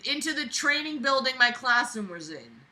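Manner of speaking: mocking reread. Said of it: "everything he writes is so needlessly wordy".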